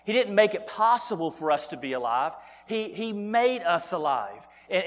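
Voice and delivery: ordinary talk, nothing marked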